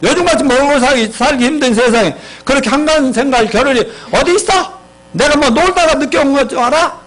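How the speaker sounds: mock defensive outburst, climbing in pitch; husband flaring up. Husband snaps back at accusing wife, flaring up. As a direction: act out an indignant husband, rising as it goes. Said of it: "남편의 응답은 버럭하면서".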